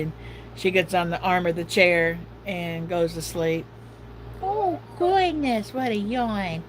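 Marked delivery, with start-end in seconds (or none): 4.4-6.6 mock amazement. Real, not acted. Reacting to dog yawn.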